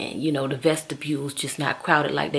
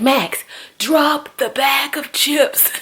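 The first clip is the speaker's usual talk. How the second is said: higher, slow, firm order; firm command; 9 semitones higher, slower than usual. Retold or imitated. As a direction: tell the child sternly. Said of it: "I was like".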